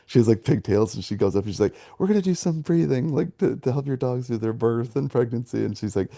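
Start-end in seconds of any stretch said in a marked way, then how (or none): 2.0-5.6 lightly imitated perky class instructor, pitched high; crazy kindergarten teacher. Instructor to puppy Lamaze class, mock kindergarten-teacher voice. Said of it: "The crazy kindergarten teacher".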